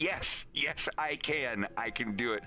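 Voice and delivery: high yes, settling as it goes; eager assurance. Acted. Wolf convinces a puzzled Leon, eager assurance. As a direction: insist eagerly, starting high then easing down.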